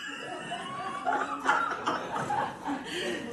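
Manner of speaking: long high breathy laugh; high, trailing peal of laughter. Real, not acted. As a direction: burst into drawn-out laughter. Loud burst after shouting demo.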